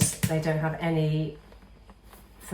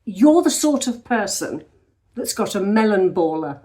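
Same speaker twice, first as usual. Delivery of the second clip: imitating a neighbour; 3 semitones higher, 5 dB louder than usual. Neighbour knocks at the front door, imitated neighbour voice. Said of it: "knocked on my front door and said".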